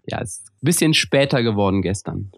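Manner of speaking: worn out after a long night; hungover voice. Real, not acted. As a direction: speak like the morning after a party. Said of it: "Hört sich nach einer durchzechten Nacht an".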